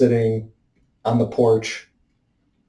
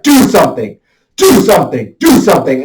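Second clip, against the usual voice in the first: insistent, higher and louder chant; inner urge; 3 semitones higher, 4 dB louder than usual. Retold or imitated. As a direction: hammer the urge out each time. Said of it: "but it's just like".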